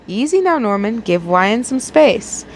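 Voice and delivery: slow, calm, gentle rebuke; steady the boy politely; polite reprimand. Acted. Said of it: "reprimanded him in a polite fashion".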